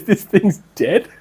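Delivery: slow, drawn-out retold verdict; slowly imitated pronouncement; imitating his verdict. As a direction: mimic him, stretching out each word. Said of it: "that's the way he said it".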